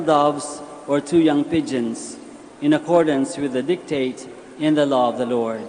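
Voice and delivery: solemn Gospel proclamation; scripture reading. Acted. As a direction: read it out as liturgy in church.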